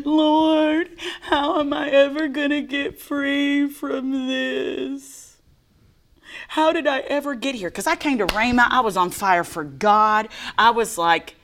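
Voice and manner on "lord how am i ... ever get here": high, slow, whimpering plea; whiny crying voice. Retold or imitated. Telling Carolyn how she begged the Lord, slow high whine. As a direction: whine it out like you're about to sob. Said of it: "even my inside voice was whining".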